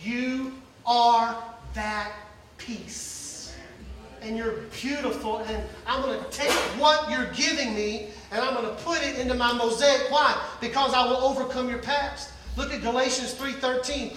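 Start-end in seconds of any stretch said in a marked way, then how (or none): 0.0-10.1 tender hush. Acted. God voiced tenderly.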